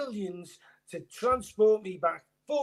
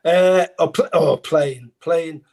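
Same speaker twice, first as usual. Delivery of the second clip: excited; 5 semitones lower, 9 dB louder, slower than usual. Real, not acted. Excited answer to question.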